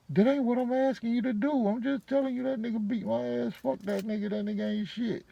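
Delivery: high, heated woman's voice telling him off; angry woman. Retold or imitated. Shell on the phone, furious at David, high heated voice. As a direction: spit it out like she's fed up with him.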